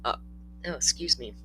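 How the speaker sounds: talking through hiccups; hiccuping between words. Real, not acted. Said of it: "I got the hiccups now".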